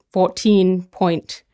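very slow, drawn-out bid with big gaps, rising at the end; leisurely, questioning bid call; mock Sotheby's auctioneer. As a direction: imitate an auctioneer in no hurry at all. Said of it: "have a cup of tea, and then".

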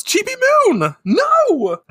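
high anguished cry, moderately loud; retold yell. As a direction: cry it out like Usagi. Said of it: "Usagi yells".

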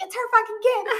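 high, loud mock exasperation with a laugh; retold exasperation. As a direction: argue with yourself, voice jumping up. Acting out her exasperated inner argument.

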